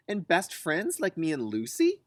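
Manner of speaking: put-on child voice. Liza asking about her best friend, eager childlike voice. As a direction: ask hopefully like a kid.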